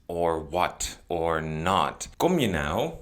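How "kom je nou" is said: higher, pushy "Kom je nou?"; irritated rising question; impatient. Shown as a demonstration. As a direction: demand an answer, a bit fed up. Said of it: "Are you coming or not?".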